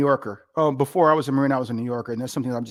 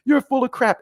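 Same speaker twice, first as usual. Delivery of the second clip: high, scornful retort; retold boss scorn; 11 semitones higher, 5 dB louder than usual. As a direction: dismiss him with contempt. Colonel dismissing again.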